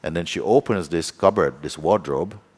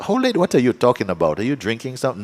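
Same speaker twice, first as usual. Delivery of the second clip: higher, quick retold disbelief; incredulous; 5 semitones higher, faster than usual. Hostess doubts her friend's old-lady sighting, incredulous. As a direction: question her as if she's talking nonsense.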